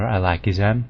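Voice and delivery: Ilakizan said "eye-LACK-ee-zan"; "Ilakizan" starting like the word "eye"; official pronunciation. Shown as a demonstration. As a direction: open Ilakizan with a long "eye". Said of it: "they pronounce it I".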